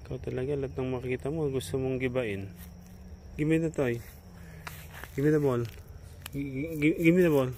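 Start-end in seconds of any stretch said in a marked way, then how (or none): 3.4-7.0 firm command. Real, not acted. Commanding dog, getting louder. 7.0-7.5 louder and higher, hitting me; raised voice, impatient order; loud command. Real, not acted. Commanding dog, getting louder.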